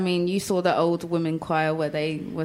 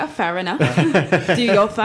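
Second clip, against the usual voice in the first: laughing mock acceptance. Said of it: "I was like".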